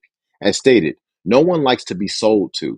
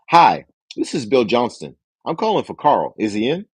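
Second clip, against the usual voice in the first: authoritative caller. Shown as a demonstration. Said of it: "keep a tone of authority".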